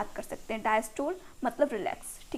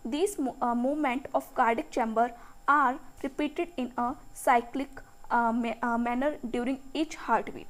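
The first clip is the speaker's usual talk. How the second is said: very slow, word by word, so students can write; slow textbook dictation; much slower than usual. Shown as a demonstration. Teacher dictating the definition to her students, slowly. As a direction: read each English word out slowly and evenly.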